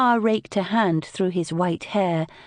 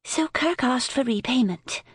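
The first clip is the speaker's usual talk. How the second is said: impatient; 6 semitones higher than usual. A narrator's reading. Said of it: "Lily said impatiently".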